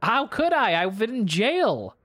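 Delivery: high-pitched, drawn-out protest; indignant protest. Acted. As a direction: protest your innocence, pitch jumping up. Jailed suspect protests accusation.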